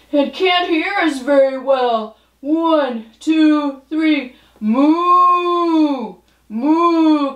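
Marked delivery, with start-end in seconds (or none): 4.6-7.3 cow moo. Pretend. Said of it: "will you moo with me?".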